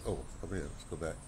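ordinary delivery

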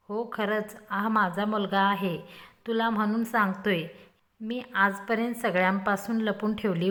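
mock heartfelt confession, slowing at the end; understated fake sorrow; faking emotion. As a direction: ham up being moved, lightly. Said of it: "emotion होण्याची acting करत म्हणाला".

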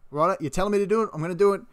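annoyed worker giving in to the boss; exasperated. Retold or imitated. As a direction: snap back fast like you've had enough. Acted work argument with boss.

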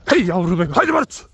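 high, ringing call on haydi Barut; calling the dog. Real, not acted. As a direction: call the dog across the field.

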